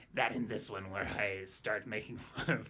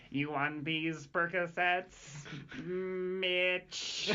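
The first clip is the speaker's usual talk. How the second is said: slow, drawn-out Conehead alien voice; lightly voiced Conehead alien, slow; 5 semitones higher, much slower than usual. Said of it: "you sound like the Coneheads".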